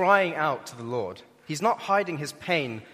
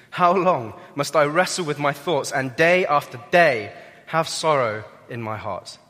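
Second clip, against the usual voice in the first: pained lament; 7 dB louder than usual. Acted. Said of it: "You can hear the pain in his voice".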